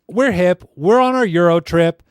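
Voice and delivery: hammed-up trendy traveler voice; mocking cool kids. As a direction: parade it like smug hip kids. Mocks tourists in their voice.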